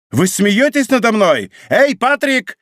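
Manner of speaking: high, indignant outburst; indignant calling out. A narrator's reading. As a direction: call out sharply for a servant. Cornered duke calls for servant.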